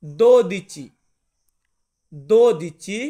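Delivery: teacher sounds out দোদিচি loud and clear; Italian word demo. Shown as a demonstration. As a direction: loudly model দোদিচি. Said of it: "বারোকে আমরা Italian ভাষাতে বলবো".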